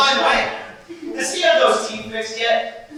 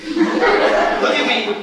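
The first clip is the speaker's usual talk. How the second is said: laughing; much slower than usual. Acted. Laughing at his own joke.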